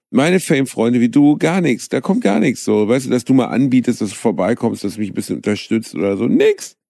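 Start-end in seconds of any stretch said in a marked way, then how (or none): 0.1-2.6 mock complaint. Real, not acted. Mock complaint about absent friends. 6.3-6.8 indignant squeak. Real, not acted. Climax of mock complaint.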